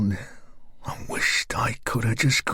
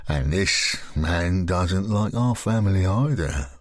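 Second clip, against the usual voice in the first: lower, slow menacing man; lower, slow sinister man; Graham's voice; 4 semitones lower than usual. Acted.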